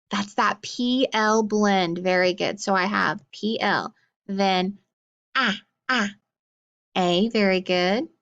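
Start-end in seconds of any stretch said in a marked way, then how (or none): 5.4-6.1 "ah, ah" as the vowel of plastic, twice apart; short A sound. Shown as a demonstration. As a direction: isolate short A in "ah, ah". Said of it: "what do we hear first".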